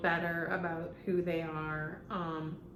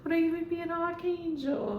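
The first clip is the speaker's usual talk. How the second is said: higher, fast, put-on theatrical sigh; fast diva voice; 8 semitones higher, faster than usual. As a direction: rattle off like a dramatic diva. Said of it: "That's how he".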